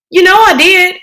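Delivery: put-on a worried young girl questioning her brother; child's voice, rising alarm; little sister Joey. Joey answers Kenny.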